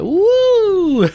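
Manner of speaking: high whooping woo; mock cheer. Drunk gamer mimics his sudden buzz with a high whoop. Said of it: "I'm like".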